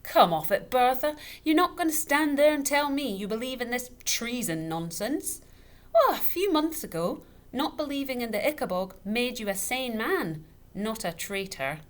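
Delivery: high, loud scoffing; father scoffing at treason talk; mocking tipsy scorn. A narrator's reading. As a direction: laugh her belief off. Father mocks her belief.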